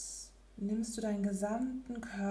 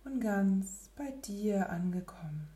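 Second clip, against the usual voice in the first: soft spa whisper; 6 dB quieter than usual. Acted. Gently waking from meditation.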